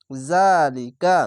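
জালিকা very slow, the long vowel drawn out; slow recitation. Shown as a demonstration. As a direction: stretch জালিকা by one alif. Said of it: "এক আলিফ টেনে পড়বেন".

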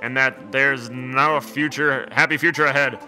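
a mild Scottish brogue, "Aye"; the Scottish dog, lightly voiced; understated Scottish accent, eerie mood. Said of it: "he'd be Scottish".

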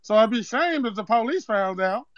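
put-on Zeke accent; Zeke-style street accent. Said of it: "the nigga sound like Zeke".

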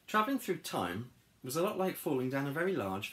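animated storybook reading; story narration. A narrator's reading. Telling of a fall through time, lively narration. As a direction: narrate it for young listeners.

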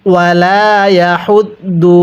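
ইয়াহুদ্দু with air pushed out on the ha; breathy ha. Shown as a demonstration. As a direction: push breath through হা in ইয়াহুদ্দু. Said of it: "আমার সাথে পড়ুন". (ইয়াহুদ্দু হা-তে বাতাস ছেড়ে)

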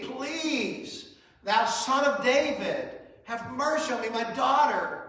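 a desperate mother pleads with Jesus for her daughter, gently pleading. Acted. Lightly voiced begging plea. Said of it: "a look of pleading".

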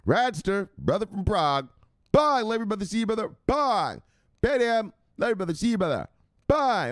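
high, loud farewells to viewers; host shouting out fans by name, high and loud. Acted. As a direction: greet each fan loudly.

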